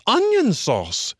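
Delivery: high, slow, drawn-out jeer; jeering taunts. A narrator's reading. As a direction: drag out the taunt. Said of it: "he remarked jeeringly".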